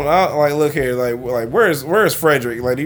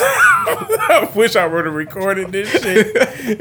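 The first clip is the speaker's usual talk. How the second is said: laughing; 6 semitones higher, much slower than usual. Real, not acted. Laughing hard while telling.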